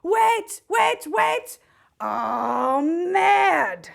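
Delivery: high, rising alarmed cries; high frantic protesting voice; panicked protest. Acted.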